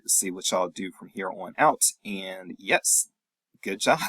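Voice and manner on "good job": a light, rising "good job" with "job" going up; tentative good job. Real, not acted. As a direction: offer the praise almost as a question, a little higher in pitch. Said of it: "I don't know what else to say except".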